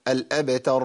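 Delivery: الأبتر with a light bounce on ب; crisp released ب in الأبتر; bouncing qalqala. Shown as a demonstration. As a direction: echo the ب of الأبتر briefly. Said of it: "الباء هنا مقلقلة ساكنة".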